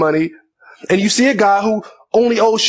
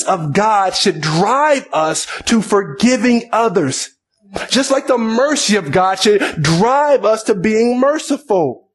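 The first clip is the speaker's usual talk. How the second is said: raised, driving preacher's voice; fervent preaching; 3 semitones higher than usual. Acted. Preacher pressing the congregation in full force. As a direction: preach it with rising conviction.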